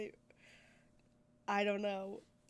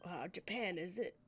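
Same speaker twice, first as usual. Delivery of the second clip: lower, offhand Irish character; attempted Irish accent; 4 semitones lower, 7 dB quieter than usual. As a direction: play an Irishman offering money. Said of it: "I can't do an Irish accent".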